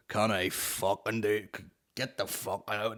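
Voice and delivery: slow, lightly voiced cowboy refusal; a hint of a slow cowboy; John Wayne. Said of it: "he takes the John Wayne approach".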